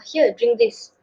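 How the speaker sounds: stiff, proper offer; formal English. Shown as a demonstration. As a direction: hand it over correctly, no warmth. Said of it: "It sounds so formal".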